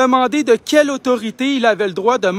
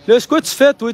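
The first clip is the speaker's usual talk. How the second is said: higher, louder demand; angry raised voice at a stranger; raised challenge; 5 semitones higher, 4 dB louder than usual. Real, not acted. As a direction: call him out loudly. Confronting a man near police.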